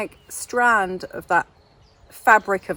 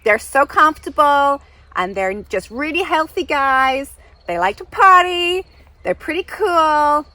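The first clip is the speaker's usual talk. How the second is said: high, loud, admiring American caricature; brash mock-American fangirling; the speaker's terrible American accent; 5 semitones higher, 5 dB louder than usual. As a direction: gush in a put-on American accent. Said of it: "terrible accent of the speaker".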